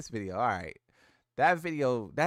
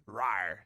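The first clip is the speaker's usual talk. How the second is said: low growl; 8 semitones lower, 3 dB quieter than usual. Shown as a demonstration. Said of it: "He should growl".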